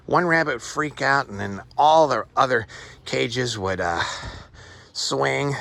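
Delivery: talking while out of breath; puffing between words, short of air. Real, not acted. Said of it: "Boy, I'm out of breath".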